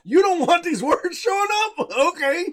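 high, mock-helpful service voice; Twitch voice. Voicing Twitch's helpful response.

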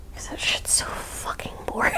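hushed, breathy whisper of a confession; whispered aside. Real, not acted. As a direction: drop to a whisper for the blunt aside. Blunt aside about spa work.

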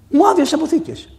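high-pitched complaint; acted reproach. Widow confronts her son over the storerooms, acted high reproach. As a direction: protest at being cleaned out.

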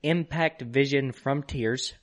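slow, punchy boxing announcer read. Acted. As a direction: call out each round like a ring announcer. Reads boxing rounds off package.

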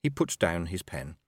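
ordinary delivery

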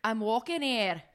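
tentative, lightly attempted Scottish accent. Second player trying the film quote, Scottish accent. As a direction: try a mild Scottish brogue, drawn from memory. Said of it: "your accent is Scottish".

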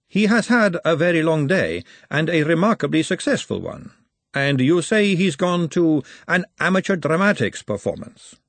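cool lady asking, lightly voiced; lady character. A narrator's reading. Lady Margalotta speaks.

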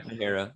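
"Nahara" confirmed as nuh-HAIR-uh. Shown as a demonstration. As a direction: confirm "Nahara" with an H and an "air" middle. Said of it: "the J is like an H".

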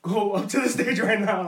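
slow, lightly voiced stern order; drawn-out mock command from an uncle; imitating uncle. Uncle sends nephew onstage, lightly imitated slow order. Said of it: "And he's like".

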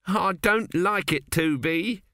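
frightened builder quavers at his brother; quavering. Acted. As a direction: let the voice tremble, unsure. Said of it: "two A quavered".

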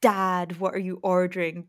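clearly announced question to dad; really clear, pointed. Retold or imitated. Imitating friend asking dad at a restaurant, pointedly clear. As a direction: make "Dad" obvious to anyone listening. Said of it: "really clearly be like".

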